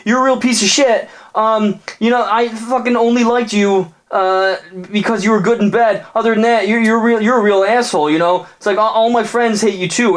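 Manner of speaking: very high, shrieking mock rant; furious girlfriend. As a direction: tear into him from way up high. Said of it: "And she's like".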